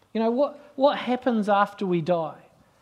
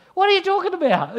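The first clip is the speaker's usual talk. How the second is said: baffled question; 12 semitones higher, 4 dB louder than usual. Retold or imitated. Passenger baffled.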